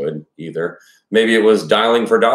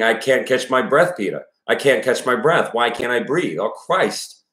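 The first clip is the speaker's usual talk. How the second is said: put-on breaking childish voice; 5 semitones higher than usual. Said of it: "in a breaking, childish voice".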